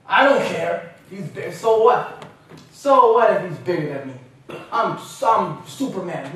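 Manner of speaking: loud, brash "so what" bravado; cocky shout. Retold or imitated. Young wrestler brushing off the locker room warning, loud and cocky. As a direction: throw it back at them, full of yourself.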